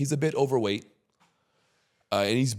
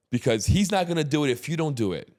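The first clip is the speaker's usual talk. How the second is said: higher-pitched, insistent reasoning; retold lecture to friend; 6 semitones higher, faster than usual. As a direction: press the point with a friend. Retells lecturing his overweight friend.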